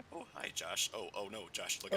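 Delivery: mock alarm. Teasing driver on track.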